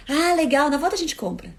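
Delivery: a touch of fake cheer, tossed off; mock cheerful brush-off. Partner answering a coffee request: lightly mocking cheerful tone. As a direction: say it breezily as if it costs nothing. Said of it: "Ele nem olhou pra mim".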